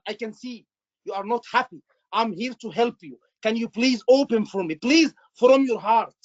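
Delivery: mean every word, gently; sincere acknowledging. Shown as a demonstration. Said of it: "words, you will feel it".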